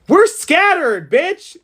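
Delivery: high, slow, bitter lament; mock lament. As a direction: cry out like scattered ancestors. Acted ancestor lament.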